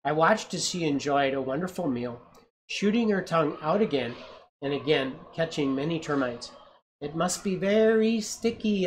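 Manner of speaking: gentle read-aloud storytelling; story narration. A narrator's reading. Parent reading a picture book to a child, storytelling voice.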